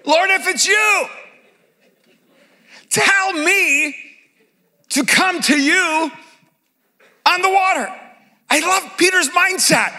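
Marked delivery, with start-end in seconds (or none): 0.0-7.9 slow, emphatic request; earnest Peter. Retold or imitated. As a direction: stress each phrase of the request. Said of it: "Peter's real request, slow, emphasized".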